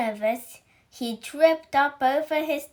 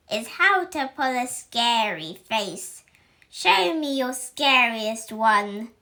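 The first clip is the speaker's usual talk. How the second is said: stern witch teacher; 5 dB louder than usual. Acted. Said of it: "announced Miss Bell".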